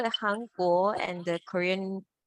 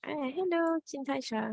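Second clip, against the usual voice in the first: calling out to a friend; 7 semitones higher than usual. Shown as a demonstration. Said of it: "He's calling out the friend's name".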